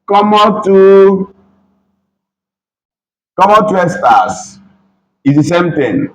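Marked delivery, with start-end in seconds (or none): 0.1-4.6 slow demo. Shown as a demonstration. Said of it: "you can say".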